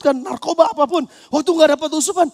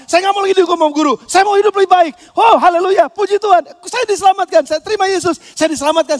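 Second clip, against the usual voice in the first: fast, eager mock resolve turning to praise; saved student declaring resolve, joyful; joyful testimony; 3 semitones higher, 4 dB louder than usual. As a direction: declare it gladly like a new convert. Student resolving after salvation.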